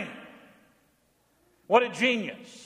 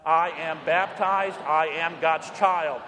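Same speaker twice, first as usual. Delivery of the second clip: slow, deliberate repeat of the creed; measured creed with the congregation; slow recitation; 2 semitones lower, much slower than usual. Shown as a demonstration. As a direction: say it once more, slowly.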